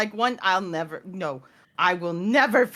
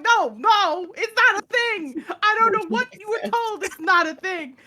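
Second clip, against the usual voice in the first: mock firm mom; 10 semitones higher than usual. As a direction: firmly deny it, half-playful. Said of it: "I'm like".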